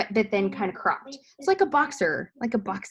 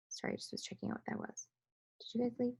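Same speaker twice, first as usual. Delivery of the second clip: quick whispered aside; whispering; 4 semitones higher, 13 dB quieter, faster than usual. Real, not acted. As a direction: drop to an unvoiced whisper.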